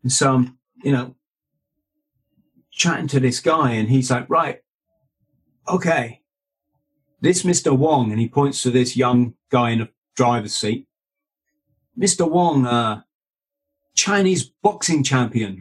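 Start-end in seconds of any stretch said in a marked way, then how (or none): 4.3-8.1 put-on higher-pitched Hong Kong Chinese accent. Club manager introduces the driver, Hong Kong Chinese accent. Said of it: "Sorry, I'm doing the accent". 11.9-15.6 imitated Hong Kong Chinese accent. Manager introducing the boxing champion, Hong Kong Chinese accent. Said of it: "Sorry, I'm doing the accent".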